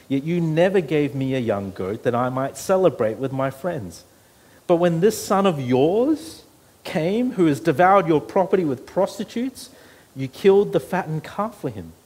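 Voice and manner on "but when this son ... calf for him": high, loud, slowed bitter complaint; indignant son accusing his father; resentful older son. Acted. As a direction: spit out the grievance at the father.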